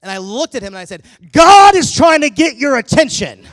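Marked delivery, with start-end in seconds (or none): 1.3-3.5 very loud, high, slow dramatic pronouncement with a laugh; having fun. Retold or imitated. Preacher spooking the surprised kid, loud and dramatic. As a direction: boom it like an ominous prophecy, grinning. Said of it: "this is where you can have a little bit of fun".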